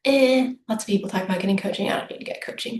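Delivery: mock waffling, noncommittal; lightly acted indecisive shrug. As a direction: imitate someone talking themselves out of it. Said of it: "sit there waffling around going".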